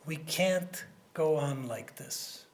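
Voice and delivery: slow, deliberate, each word weighed; slow grave quote. Retold or imitated. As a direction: lay it down slowly for the cabinet. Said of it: "he turned to his cabinet and he said".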